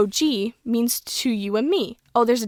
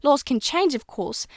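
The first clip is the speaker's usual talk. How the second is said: put-on lightly British old woman teacher; shaky attempt at a British schoolmistress; slightly off British accent for an old teacher. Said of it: "This, my British accent is getting worse and worse".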